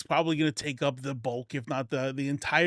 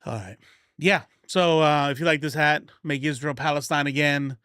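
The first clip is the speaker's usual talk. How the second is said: put-on country accent. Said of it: "with the country accent".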